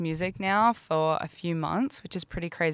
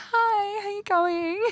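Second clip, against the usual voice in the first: put-on very high-pitched, tipsy, friendly, drunk-sounding voice. Recalling meeting her friend in a queue: imitating Imogen's high-pitched voice. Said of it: "High-pitched voice of".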